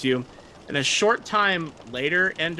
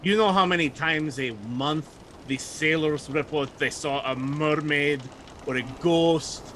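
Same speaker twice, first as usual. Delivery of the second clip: dismissive; slower than usual. Acted. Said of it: "he rolls his eyes at you".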